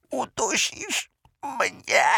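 high, slow gasping squeak; out of breath. Acted. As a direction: gasp on the last breath. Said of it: "resztką tchu wydyszał".

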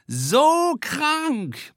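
high whooping cheer. A narrator's reading. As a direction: whoop it with delight. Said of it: "johlt Gina Marie".

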